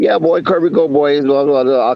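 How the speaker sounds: put-on Jamaican accent. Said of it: "in that Jamaican voice".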